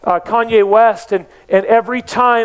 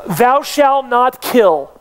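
slow solemn quote; 4 semitones higher, much slower than usual. Acted. Preacher quoting commandments slowly.

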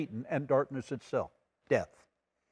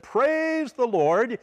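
high, slow praise call; high, slow praise cry; joyful praise; 7 semitones higher, much slower than usual. Retold or imitated. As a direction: stretch it out, arms up. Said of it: "yell after she said".

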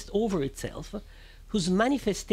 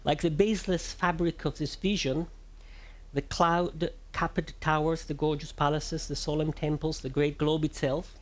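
poetry recitation. Acted. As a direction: recite it like a stage poem. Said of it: "pardon my horrible Italian accent and Italian reading".

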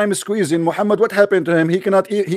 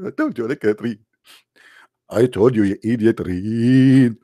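exasperated angel; 10 semitones lower, slower than usual. Acted. Angel scene acted out.

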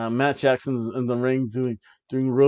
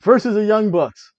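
announcer call; 9 semitones higher, 8 dB louder than usual. Pretend. Announcing the wrestling match.

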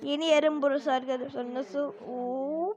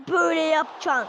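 coach show; 2 semitones higher, 5 dB louder than usual. Shown as a demonstration. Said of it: "Ateşli şut nasıl atılır?".

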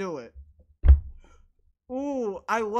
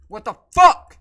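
loud, disbelieving what the fuck; real exasperated shout; exasperated yell; 6 dB louder than usual. Real, not acted. Shocked by the game.

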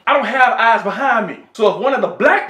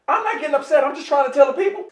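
getting upset; 5 semitones higher, faster than usual. Real, not acted. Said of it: "starting to get upset".

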